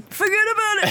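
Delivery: strained Brooklyn "Forget about it"; Brooklyn accent. Acted. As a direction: push it out, hammy Brooklyn. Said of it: "Sounds like you're pooping".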